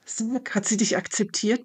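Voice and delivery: bursting to know the answer; excited. Acted. Friend hops with excitement asking if she was accepted, eager. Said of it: "ganz aufgeregt hüpfend".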